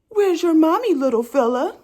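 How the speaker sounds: lightly voiced cooing delivery man; man's voice. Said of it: "So the man goes".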